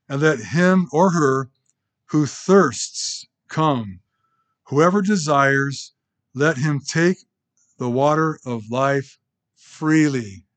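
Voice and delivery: scripture reading. Acted. Reading Revelation slowly, emphatic.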